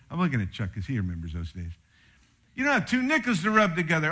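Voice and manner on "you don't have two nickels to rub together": put-on higher, louder, fast quote of an old folks' saying; grandparents' saying, louder. Preacher to church, quoting grandparents, louder and quick. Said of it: "my folks used to say".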